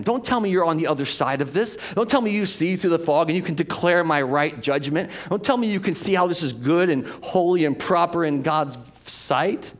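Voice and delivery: pleading hard as a suffering man; impassioned plea as Job. Acted. Preacher voicing Job to his friends, loud impassioned plea.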